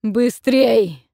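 loud, high urgent cry; strained yell of urgency; barely holding back. Acted. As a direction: force it out at the edge of control. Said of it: "уже едва сдерживаясь".

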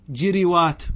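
جروات as "jiriwaat", short i after ج and ر; careful "ji-ri-waat" for جروات; kasra on both. Shown as a demonstration. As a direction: say جروات with two i vowels before long waat. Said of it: "بكسر الفاء والعين".

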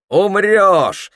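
high, loud accusing cry; loud, menacing mob shout. A narrator's reading. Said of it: "закричали гости".

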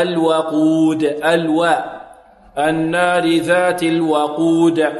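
الوقود drawn out with a thin waw and clear open a; light waw. Shown as a demonstration. Teacher corrects the mistake, light waw in الوقود. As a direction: say الوقود slowly, waw kept light, qaf heavy. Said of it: "خطأ".

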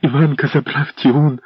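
high, frightened calling out; a wife shouting in panic for help; frantic cry. A narrator's reading. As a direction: cry out to rouse the prince. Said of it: "продовжувала кричати Роксана".

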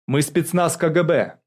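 hurried addition. A narrator's reading. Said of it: "торопливо добавил Александр Дубко". (торопливо и громко)

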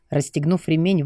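usual speaking voice

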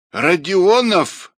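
put-on high, loud, slow old woman's croak; rusty croak. A narrator's reading. Dying old woman calls out Rodionov, croaking rustily. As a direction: croak the name out distinctly, syllable by syllable. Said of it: "ржавым голосом раздельно и внятно каркнула".

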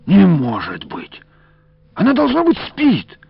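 high, loud disbelieving protest. A narrator's reading. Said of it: "запротестовал Иларион".

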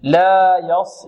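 slow, drawn-out لا يص with heavy ص; careful pronunciation. Shown as a demonstration. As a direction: stretch لا and settle on the ص. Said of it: "هذه الكلمة ننطقها هكذا".

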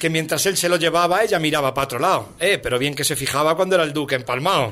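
rhythmic recital of satirical verse; poem recitation. Acted. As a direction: recite rhymed verse line by line.

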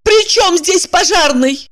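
high indignant protest; indignant woman. A narrator's reading. Evdokia indignant at Kirillov's joke, high protest. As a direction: bristle at the insult, pitched high. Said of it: "и возмутилась".

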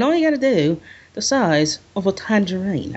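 badly faked Cockney accent; failed Cockney attempt. Podcaster tries to copy the line, bad Cockney accent. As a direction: have a clumsy go at Cockney. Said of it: "I can't do Cockney".

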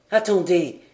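a touch of urgent exclamation; exclaimed. A narrator's reading. John stops the others on spotting the wreck, exclaiming. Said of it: "s'écria John Mangles".

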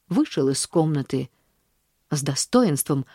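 ordinary delivery

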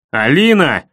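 shouted name, loud; yelling. Acted. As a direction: yell her name. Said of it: "завопил я".

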